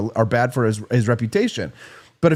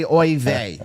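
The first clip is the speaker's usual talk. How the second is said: a mock Jewish New Yorker "Oy vey" in a changed voice. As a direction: toss off "Oy vey" like an old New York deli regular. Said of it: "you got the Jewish New Yorker".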